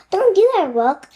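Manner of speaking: high, loud pleading call; urgent plea. Acted. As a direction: stop the bird urgently. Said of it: "said Annie".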